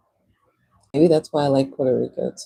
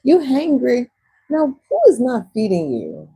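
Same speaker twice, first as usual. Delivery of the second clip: put-on Texas accent; 8 semitones higher than usual. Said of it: "because of the Texas accent".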